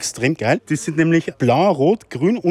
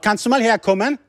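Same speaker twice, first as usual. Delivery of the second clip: yelling across the room; 6 semitones higher, 4 dB louder than usual. Real, not acted. Calls crew member from the back.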